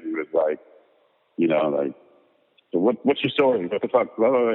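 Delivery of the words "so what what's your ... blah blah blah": mock hyper burst, higher; imitating a wired, fast-talking director; lightly acted super-hyped energy. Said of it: "like, super hyper".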